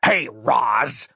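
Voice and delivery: a lightly voiced leering demon; a hint of a sneering dream demon; Randy hissing. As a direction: greet her with a sly, leering edge. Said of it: "hissed the Randy man".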